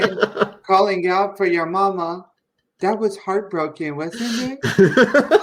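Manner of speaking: hammed-up tipsy sympathy, lilting up at the end; drunk Pelosi mockery. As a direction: imitate a boozy politician gushing. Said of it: "completely drunk off of a box wine".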